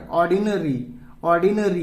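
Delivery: "ऑर्डिनरी" ending in an ee sound; final y as ई. Shown as a demonstration. Teacher showing y read as a vowel, "ऑर्डिनरी" ending in ee. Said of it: "ई पढ़ रहे हैं".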